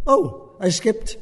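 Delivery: a hint of the Dalai Lama, slow and amused; lightly imitating the Dalai Lama. Teacher lightly voicing the Dalai Lama admitting a skipped point. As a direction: gently voice the Dalai Lama noticing his slip. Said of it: "I'm gonna try not to do the accent".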